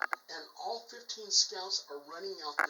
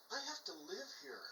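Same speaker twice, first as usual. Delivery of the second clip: quiet; 3 semitones higher, 10 dB quieter than usual. Retold or imitated. Occupant voiced quietly.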